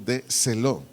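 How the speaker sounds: "de celo" in separated syllables, stress on the E; Greek word pronunciation. Shown as a demonstration. Teacher repeats the Greek word, "de celo" stressed on the E. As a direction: pronounce "de celo" carefully, accenting the E of "celo". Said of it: "acento en la E".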